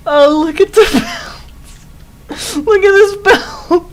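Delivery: high, loud words squeezed out between sobs of laughter; can barely get the words out for laughing; crying with laughter. Real, not acted. Gamer laughs at a belt in his old base, tearful. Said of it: "I'm, like, actually crying".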